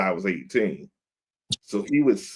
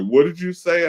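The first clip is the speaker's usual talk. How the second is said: indignant boss; 9 semitones higher, 5 dB louder than usual. Retold or imitated. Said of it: "And he was like".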